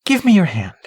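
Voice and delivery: lightly voiced, kindly old lady; gentle old lady. A narrator's reading. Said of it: "she said".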